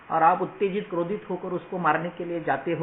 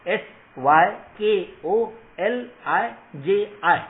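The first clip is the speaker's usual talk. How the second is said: letters spelled out slowly, louder and higher; 5 semitones higher, 7 dB louder, much slower than usual. Shown as a demonstration. Teacher spelling the word wrongly on purpose, slow and loud. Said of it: "मैं spelling आपको बताता हूं".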